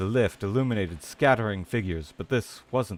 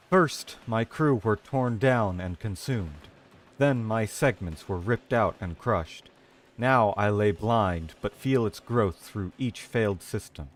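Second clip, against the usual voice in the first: dramatic reading. Acted. Streamer reading a dying Cephalon's log, grim narration. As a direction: read the logbook like a grim narrator. Reading lore text aloud.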